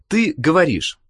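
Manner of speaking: normal talking voice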